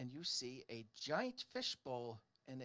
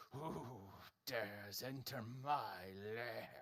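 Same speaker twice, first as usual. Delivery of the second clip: booming monster voice; 2 semitones lower, slower than usual. Acted. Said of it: "You hear a booming voice".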